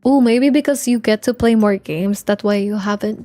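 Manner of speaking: usual speaking voice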